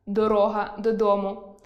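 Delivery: дорога додому with доро́га stressed on о; stress on the middle syllable. Shown as a demonstration. Teacher giving an example of доро́га. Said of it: "про шлях".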